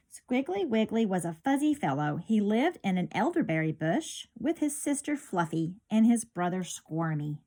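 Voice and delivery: lively storybook read-aloud; bright picture-book narration; reading to children. A narrator's reading. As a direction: read it like storytime for little kids.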